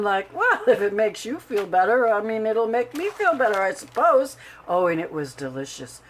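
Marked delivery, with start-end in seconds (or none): 0.3-4.4 mock-reluctant, laughing at the start; a playful put-on sigh of acceptance; hammed-up reluctance. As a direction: pretend to give in graciously. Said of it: "I did ham it up a little bit".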